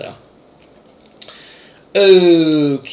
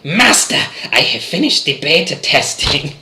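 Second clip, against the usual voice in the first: high, humble servant announcing; 4 semitones higher, 4 dB louder than usual. Pretend. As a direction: report to your master meekly. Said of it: "servant in my basement".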